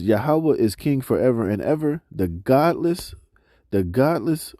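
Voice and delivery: slow, measured reading of scripture. Acted. Preacher reading scripture to the congregation, slow and measured. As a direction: read the verses out to the congregation, slowly. Reads scripture passage aloud.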